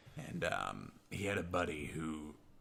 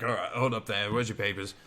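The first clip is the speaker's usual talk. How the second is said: louder British officer, lightly done; British accent; 5 dB louder than usual. Retold or imitated. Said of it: "that they thought weren't British".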